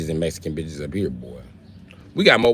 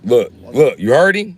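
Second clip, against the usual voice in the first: excited teasing; 5 semitones higher, 7 dB louder than usual. Real, not acted.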